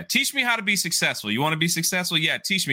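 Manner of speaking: high, eager acted young man; eager plea. Young man begging the successful guy for lessons, eager.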